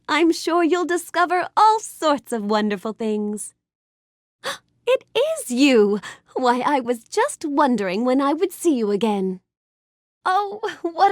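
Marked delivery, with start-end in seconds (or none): 4.9-6.0 gasp, then slow delighted recognition; pleasantly startled, drawn-out exclamation; happy surprise. Acted. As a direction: gasp and greet a friend you hoped to see. Character recognises a returning friend.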